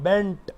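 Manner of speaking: "बेंट" ending on a pure t, no puff; unaspirated t. Shown as a demonstration. Teacher demonstrating bent to students, final t of "बेंट" unaspirated. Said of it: "मैं ट बोल रहा हूँ".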